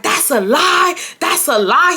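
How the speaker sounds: high, loud mocking denial; imitating his denial. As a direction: fling his denial back, pitched high. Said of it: "that's how he's talking to me".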